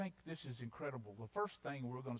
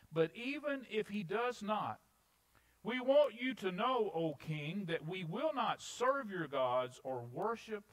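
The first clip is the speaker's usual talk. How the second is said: high, loud defiant proclamation; preach; 7 semitones higher, 8 dB louder than usual. Acted. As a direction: declare the refusal at full force.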